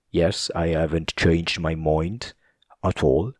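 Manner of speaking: slow mock Scottish accent; drawn-out imitation of a Scot. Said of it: "It's just so funny how he says that".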